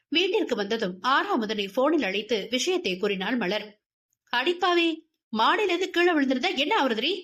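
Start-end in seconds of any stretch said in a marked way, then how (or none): 4.3-7.1 shocked scolding. Acted. Friend shocked on phone.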